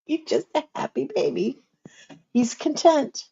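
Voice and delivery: high, soft coo; tender cooing. Real, not acted. Grandma doting on a contented baby, high tender coo.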